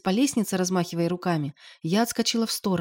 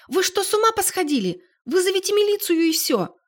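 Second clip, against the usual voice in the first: высоко и громко, взахлёб; кричать на мужчин в панике; крик; 12 semitones higher, 5 dB louder than usual. A narrator's reading. Валя кричит на мужчин. (Валя громко кричит на мужа и отца)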